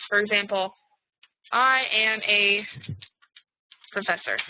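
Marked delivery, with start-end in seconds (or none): 1.5-4.4 slow, word-by-word dictation. Shown as a demonstration. Teacher dictating a chat sentence slowly. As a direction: spell it out slowly for the class. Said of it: "I wrote it in the chat".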